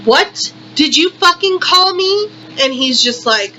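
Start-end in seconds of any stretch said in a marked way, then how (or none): 0.0-2.3 higher, louder angry demand, hitting call. Retold or imitated. Woman yelling at the cashier over sweetie, angry. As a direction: lash out at him for the word. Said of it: "And I'm like".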